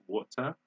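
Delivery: "water" as WAW-tah, rising; British "water", crisp T; British pronunciation. Shown as a demonstration. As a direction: say "water" with true T, no R. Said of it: "They say water in British".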